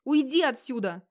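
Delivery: understated furious shout; furious outburst. Acted. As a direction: snap at her to get out. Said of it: "бешено закричал Хроар".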